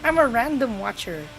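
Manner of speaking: fake innocent viewer. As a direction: pretend to be just another viewer. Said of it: "I'll be like".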